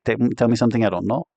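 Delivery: fast, dismissive "tell me something I don't know"; sarcastic tone. Shown as a demonstration. Teacher demonstrating sarcasm to a student, fast and dismissive. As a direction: toss it off sarcastically at x1.8 pace. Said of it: "you just have to have a sarcastic tone of voice".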